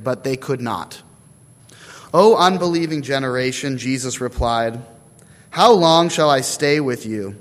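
emphatic, measured Bible reading; scripture reading. A narrator's reading. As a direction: read the passage out clearly to the congregation, phrase by phrase. Reads scripture aloud before preaching.

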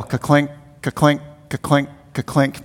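rhythmic, evenly spaced ka-clinks; low-key clanking sound imitation; imitated chain clinking. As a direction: mimic a coaster chain ratcheting uphill. Imitates chain pulling coaster uphill.

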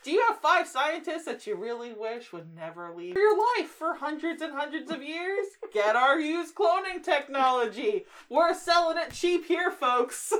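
salesy pitch with laughs; home shopping host. Acted. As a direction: sell it cheap to the folks. Mock cloning technology sale.

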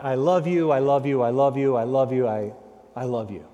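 a daughter fawning over her father; gushing flattery. Retold or imitated. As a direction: lay the flattery on thick. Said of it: "an excessive, flattering comment from his daughter".

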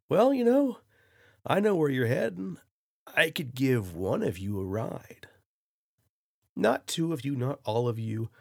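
high, loud laid-back surfer dude; easygoing beach bro offering a ride. Retold or imitated. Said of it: "in the most surfer bro voice you can imagine".

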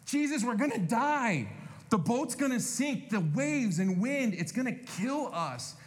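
high, panicky disciples; mock panic. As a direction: act out the disciples' alarm. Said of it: "they're freaking out".

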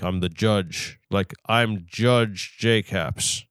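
slow, gruff judge voice. Shown as a demonstration. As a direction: try out a gruffer judge, drawn out. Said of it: "like, more gruff?".

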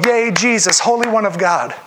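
bright, eager cheer of a fan; mock fan cheering; cheering team player. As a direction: cheer him on like a happy teammate. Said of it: "This is not a team player going".

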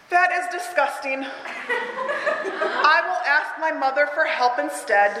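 slow, amused reply; laughing disgust. Acted. Teacher reading Tiny's reaction, laughing through it. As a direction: hold back a laugh at the juice.

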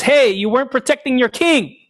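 mock callout, no real volume; mild mock yell. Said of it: "He yells at him and says".

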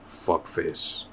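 slow mock Québécois insult; bad French Canadian put-down; fake French Canadian accent. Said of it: "that little fake French Canadian accent".

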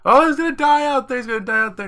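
hammed-up high, loud mock wail; freaking out, crying. Sam freaking out over leaving the pony, hammed-up crying. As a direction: imitate a belligerent, tearful meltdown way up high. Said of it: "Sam freaks out and starts crying".

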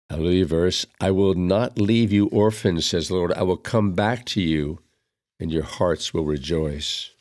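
calm, measured recited psalm with refrain; psalm recitation. Acted. Reader reciting the psalm at Mass, reverent recitation. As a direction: intone the psalm gently.

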